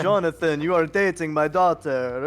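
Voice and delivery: hint of a Transylvanian count; lightly put-on Transylvanian vampire voice; Transylvanian accent. Vampire guard teasing about his daughter, light Transylvanian accent. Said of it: "started speaking in this accent".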